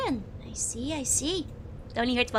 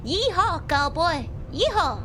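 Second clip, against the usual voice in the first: higher, hammed-up southern cowboy whoop; mock cowboy call; 4 semitones higher, slower than usual. Streamer playing American for the troll, mock southern cowboy whoop.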